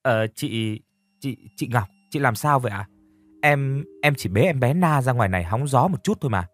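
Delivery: put-on a scared girl stumbling over her words; stammering timidly. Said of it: "Hoa thì ấp úng".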